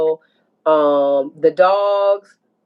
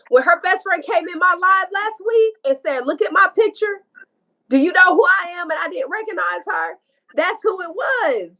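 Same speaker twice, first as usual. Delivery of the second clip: pitched way up, rushing revelation; excited; 7 semitones higher than usual. Real, not acted. Revealing to the hosts who the best friend was, excitedly high. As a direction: it all clicks, tell it fast.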